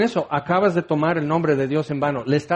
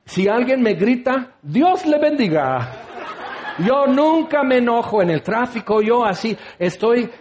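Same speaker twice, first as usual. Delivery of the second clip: higher, sugary self-satisfied voice, a laugh in it; mock pious moralist; 5 semitones higher than usual. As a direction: play the smug saint who never gets angry. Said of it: "el moralista ... dice".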